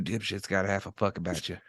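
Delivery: same question, toned down. Acted. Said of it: "keep your voice down".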